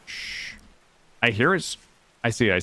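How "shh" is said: soft hushed shush. Real, not acted. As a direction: hush it quietly. Listening for prey.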